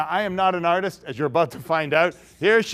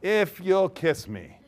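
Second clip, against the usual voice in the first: sly boatman; much slower than usual. Acted. Mister C states his price.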